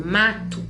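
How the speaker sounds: "mato" with a barely audible "to"; soft final syllable. Shown as a demonstration. Teacher showing the weak syllable to students, "mato" ending very softly. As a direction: stress MA and let "to" fade in "mato". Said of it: "ela fica quase imperceptível".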